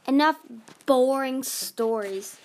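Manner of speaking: loud, slow imperious order; commanding. Acted. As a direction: bark it like a queen. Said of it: "Magnificent commanded".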